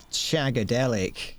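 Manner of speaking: slow, savoured mock Austin Powers; Austin Powers catchphrase. Joking with friends, a slow lightly voiced Austin Powers catchphrase. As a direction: roll the word out like the groovy spy. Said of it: "named after Austin Powers".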